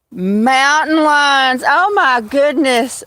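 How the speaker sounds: surprised at the news of mountain lions; alarmed. Real, not acted. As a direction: react with startled alarm. Reacts with alarm.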